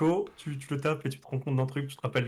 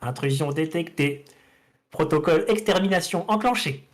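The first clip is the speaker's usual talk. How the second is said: half robot voice; 3 semitones higher than usual. Acted. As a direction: speak like a security robot. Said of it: "une voix robotique qui te dit".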